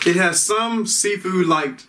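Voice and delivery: chewing between words; talking while chewing. Real, not acted. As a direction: mouth partly full of cracker. Seen 1: Pursed, working lips while talking; earlier frames show chewing, clear by 2.3.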